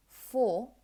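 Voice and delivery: "for" with a full long vowel; clear, unreduced "for"; strong form. Shown as a demonstration. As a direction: say "for" fully, as if alone. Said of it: "as a strong form".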